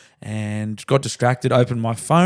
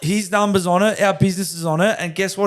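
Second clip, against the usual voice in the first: higher, heated retelling of the rant; retold telling-off; 5 semitones higher than usual. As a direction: boss recalling how he chewed out his worker, mock anger. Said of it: "'cause I was very angry and embarrassed about it".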